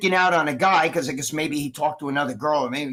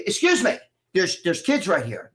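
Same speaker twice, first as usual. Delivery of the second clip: retold indignant objection; 2 semitones higher than usual. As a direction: cut in like a protective father. Father's retold objection to swearing.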